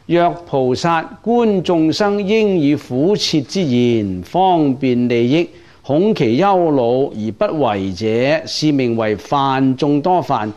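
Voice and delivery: slow, measured chanting of the sutra text; scripture recitation. Acted. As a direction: read each phrase out slowly like a liturgy. (缓慢诵读戒文)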